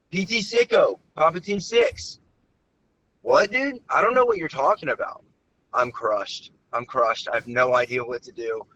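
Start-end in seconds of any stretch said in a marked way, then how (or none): 0.1-2.2 high, eager shout across the room; enthusiastic call-out. Retold or imitated. Caller hailing a stranger in the same shirt, eager shout. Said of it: "that's an incredible voice". 3.2-5.2 high, baffled reply; confused stranger. Retold or imitated. Stranger answering the caller, high and baffled.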